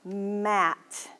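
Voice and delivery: "Mat" said slowly and clearly; careful word. Shown as a demonstration. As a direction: set "Mat" apart, clearly, for kids to hear. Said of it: "listen carefully".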